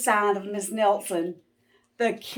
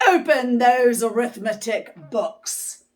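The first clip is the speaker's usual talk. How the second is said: stern order; 4 semitones higher, 4 dB louder than usual. Acted. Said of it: "snapped Miss Swamp".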